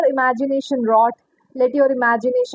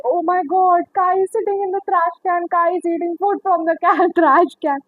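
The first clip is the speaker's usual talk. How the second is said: raised pitch, retold exclamation; mock astonishment; 4 semitones higher than usual. Retelling lizard in the trash can, mock astonishment. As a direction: act out disbelief, breaking into laughter.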